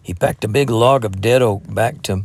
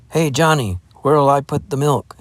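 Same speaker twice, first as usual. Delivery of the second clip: bright, raised call across the camp, higher; cheery call; 5 semitones higher, 3 dB louder than usual. Acted. Farm lad calling to the boy by the fire, cheery call. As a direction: sing it out cheerfully to a stranger. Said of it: "he called cheerily".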